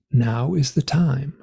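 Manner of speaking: slow, measured pronouncement; lightly voiced solemn beings; otherworldly beings. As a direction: deliver it slowly, like an oracle. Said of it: "And they say".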